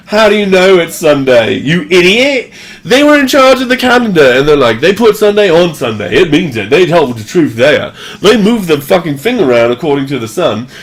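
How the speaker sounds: heated, hammed-up incredulity; indignant mock rant. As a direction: argue it with exaggerated outrage. Acted rant at calendar believers.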